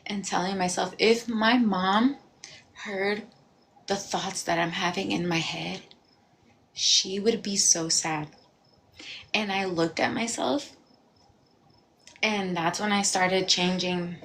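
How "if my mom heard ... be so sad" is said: tearful self-talk. Retold or imitated. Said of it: "I would cry in front of my mirror".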